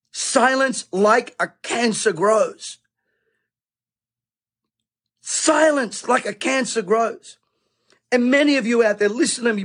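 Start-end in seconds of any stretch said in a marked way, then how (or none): 0.1-2.8 slow solemn quote. Acted. Quoted line said slowly. 5.2-7.4 slow solemn echo. Acted. Repeated slower, higher.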